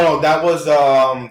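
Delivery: talking around a cough drop; cough drop in mouth. Real, not acted. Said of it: "cough drop in my mouth".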